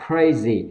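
"crazy" with a puff on the K; aspirated K. Shown as a demonstration. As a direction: release air on the K of "crazy". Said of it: "âm K bật hơi ra". ("crazy" bật hơi âm K)

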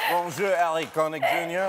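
mimicking her French accent with laughter; imitated French accent. Host imitates the actress's once-over, mock French accent. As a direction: copy her French greeting, amused. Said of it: "She goes like this".

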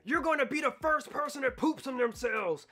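lightly put-on mocking voice; a hint of another taunting character; taunting inner voice. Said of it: "And another voice".

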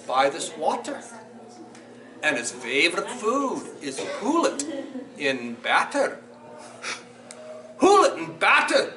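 put-on animated children's storytime in Scottish dialect; lilting, theatrical Scots storyteller; Scots story reading. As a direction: read it to children in broad Scots, with big swings. Reads Gruffalo aloud in Scots.

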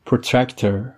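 Protractor with the r after p, pro-TRAK-ter; correct pronunciation. Shown as a demonstration. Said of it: "دقت کنید پروترکتر تلفظ نکنید". (Protractor با تکیه روی تَرَک)

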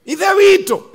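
loud high cry of Guy Idewito; hammed-up fervent prayer call; mock prayer shout. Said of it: "you know when you say".

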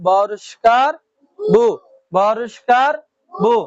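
"বরিষ্কার" rising at the end, then "বু" with a u vowel; syllable demonstration. Shown as a demonstration. Teacher showing learners the u vowel, sounding out "বু". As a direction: sound out "বু" as a separate syllable after a short pause. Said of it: "রসা উকারের মতন উচ্চারণ হয়".

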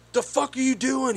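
mock confrontation at reduced volume; irate shopper. Shopper confronting a worker, mock irate. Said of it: "he's yelling and cussing".

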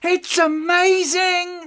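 very high, excited shouting calls; excited high calling. Acted. Child calling friends over, high and excited. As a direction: call everyone over, thrilled.

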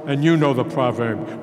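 and you know the proverb with you pushed; you set against I; stress on you. Acted. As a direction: push on you, the rest light. Contrasting who knows the proverb.

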